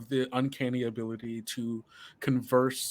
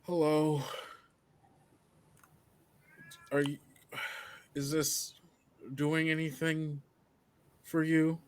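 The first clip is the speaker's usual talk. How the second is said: higher, halting, tentative voice; strapped-up test subject; 4 semitones higher, 3 dB quieter than usual. Acted. Wounded subject speaks to the turret, halting higher voice. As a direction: ask hesitantly, with long gaps between phrases. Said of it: "the person that's strapped up go".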